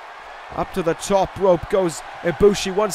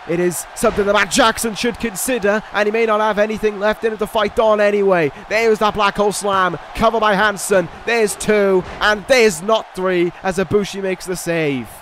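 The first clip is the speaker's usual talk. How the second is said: rising, excited ringside call; wrestling commentator. Acted. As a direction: build hype through the pin count. Live play-by-play of finisher and save.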